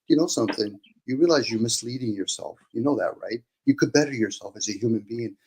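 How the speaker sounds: a touch of gentle, patient kindness; softly, like coaxing a friend; mock kindly. Host shows how to tell a listener kindly, softly. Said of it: "I could say it very kindly".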